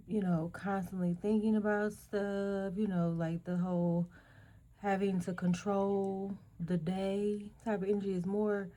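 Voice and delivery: hoarse, failing voice; worn-out voice fading; losing voice. Real, not acted. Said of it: "'cause I'm losing my voice".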